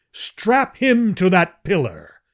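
high, slow, loud furious shriek; enraged Jedak shrieking an order. Acted. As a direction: scream the order in rage. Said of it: "he shrieked".

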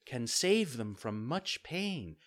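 slow motherly fairy voice; fairy, gently scolding. Acted. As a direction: admonish a child patiently. Fairy figure lectures.

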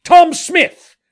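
high, full-voiced shout to someone far off; high-pitched, hailing yell; loud calling out. A narrator's reading. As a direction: holler it as loud as you can. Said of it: "calls out as loud as he could".

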